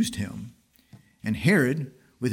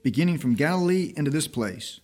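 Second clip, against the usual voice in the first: fierce accusation; 4 semitones higher than usual. Retold or imitated. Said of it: "they were the more fierce".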